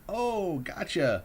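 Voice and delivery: high, mocking singsong gotcha; mocking quote. Courier mocking the listener's idea of a prank, high mock voice. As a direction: toss it off like a silly prank reveal. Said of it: "some sort of silly".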